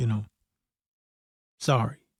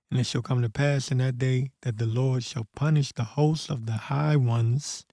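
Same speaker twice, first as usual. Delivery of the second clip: scripture reading. Acted. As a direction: read it like a preacher reciting scripture. Rereads the same scripture.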